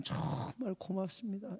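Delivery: hushed heartfelt thanks; soft thanks. Retold or imitated. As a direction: murmur "고맙습니다" gratefully into his ear. Hugging the weeping elder.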